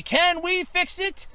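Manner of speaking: light Bob the Builder voice. Retold or imitated. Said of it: "Like Bob the Builder used to say".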